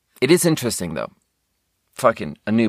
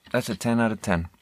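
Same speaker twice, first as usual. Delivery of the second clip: quiet; 6 dB quieter than usual. Real, not acted. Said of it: "I don't know how else to say it".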